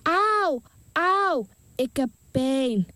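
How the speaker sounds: put-on high child's cry of pain; a son crying to his father in pain, high-pitched. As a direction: cry out like a hurting boy. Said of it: "De zoontje schreeuwde".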